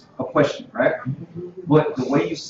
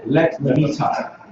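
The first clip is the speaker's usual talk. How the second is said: "Let me talk" drawn out slowly, each word clear; slow demo; much slower than usual. Shown as a demonstration. Teacher spelling out "Let me talk" slowly for the class. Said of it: "learn how to say stuff like that".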